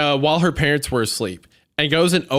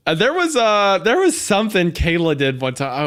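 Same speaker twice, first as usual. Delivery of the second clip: normal talking voice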